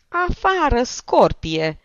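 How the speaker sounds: loud, furious dismissal, starting high; high burst of anger dropping on the insult; furious hiss. A narrator's reading. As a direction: throw her out in a rage. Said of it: "șuieră Alexei Nicolaici".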